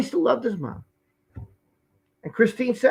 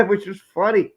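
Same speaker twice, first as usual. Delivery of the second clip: laughing; 4 dB louder than usual. Real, not acted. Laughing at own joke.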